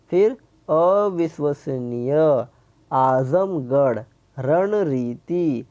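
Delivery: अविश्वसनीय, आजमगढ़, रणरीति drawn out syllable by syllable, very slow; careful pronunciation. Shown as a demonstration. Teacher reading word list aloud to children, slow and careful. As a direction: read each word slowly so children can copy it. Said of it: "इन शब्दों को शुद्ध उच्चारण कीजिए".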